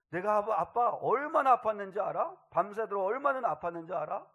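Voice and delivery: loud, high, protesting questions; acted childish complaint. Father models how his hurt son should complain, loud petulant protest. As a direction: show a child griping at Dad, pressing on 얼마나. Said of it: "이러면서 투정을 해야지".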